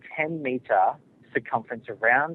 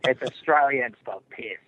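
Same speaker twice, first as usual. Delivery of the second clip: slow tagline delivery; deadpan the slogan slowly; mock ad slogan; 3 dB louder than usual. Australian caller spoofing the beer ad slogan, deadpan.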